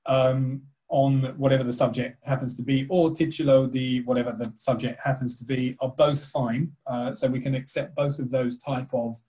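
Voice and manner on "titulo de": titulo de said in an English-accented Spanish; awful Spanish accent. Shown as a demonstration. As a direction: titulo de with anglicised Spanish vowels. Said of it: "forgive my absolutely awful Spanish accent".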